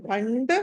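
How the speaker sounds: భండ with a retroflex ṇ before ḍa. Shown as a demonstration. Teacher explains the anusvara, భండ said with retroflex ṇ. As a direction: sound the nasal in భండ as ణ. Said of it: "పంచమాక్షరం ణ వస్తుంది".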